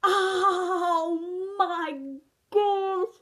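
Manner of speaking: sudden pained oh my gosh; pained exclaim. Real, not acted. Youtuber hurting herself mid-intro, pained exclaim. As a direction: blurt it out as the hit lands. Just got hurt on camera.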